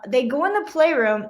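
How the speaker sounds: usual speaking voice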